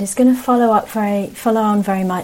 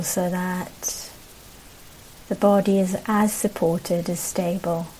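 unhurried meditation guidance with long pauses; guided meditation. Real, not acted. Teacher settling a group into posture, guided meditation. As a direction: ease them gently into practice, leaving space between phrases.

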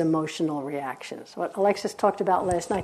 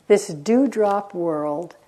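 slow poem reading; 3 semitones lower, slower than usual. Acted. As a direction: read it slowly and let it die away. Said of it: "It said".

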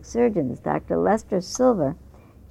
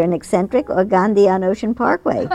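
laughing; 3 semitones higher, 4 dB louder than usual. Real, not acted. Laughs at article line.

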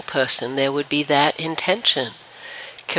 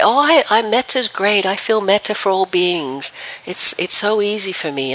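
imitating easy confidence, pitched up at the start; higher, mock-confident quote; breezy self-assurance; 4 semitones higher than usual. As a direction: lightly voice someone blithely sure of themselves. Voicing people who claim metta is easy.

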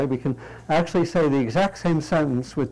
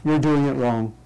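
judgmental. Shown as a demonstration. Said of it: "this is where it gets interesting".

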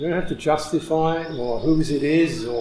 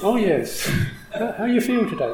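higher, laughing through a polite hello; laughing mock greeting; 7 semitones higher than usual. Teacher greets the nagging voice, laughing. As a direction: chuckle while greeting the critic sweetly. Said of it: "You talk directly to this kind of nagging voice".

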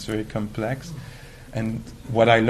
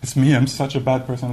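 self-pitying wail; 7 dB louder than usual. Retold or imitated. Acted self-pity.

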